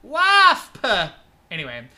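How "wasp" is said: sudden loud high yelp; shout. Real, not acted. Spotting a wasp in the room, yelping. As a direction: shriek the word in alarm.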